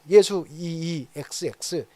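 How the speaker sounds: 느리게 이름을 흘리며 비웃는 지도자 목소리; slow, sneering leader mangling the name; acting Jewish leaders. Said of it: "이거 저 연기하는 겁니다". (유대 지도자들이 비웃듯 느리게 말하는 연기)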